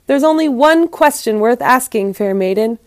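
expressive, dramatic storyteller read; story narration. A narrator's reading. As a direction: read it aloud like a fable with lively emphasis. Reads the story aloud.

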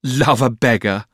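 slow, high, disbelieving pout; drawn-out, pouty scorn. A narrator's reading. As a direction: echo it back in a sulky girlish voice. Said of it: "pouted Dora".

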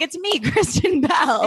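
mock impostor greeting. Imagining impostor celebrity messages.

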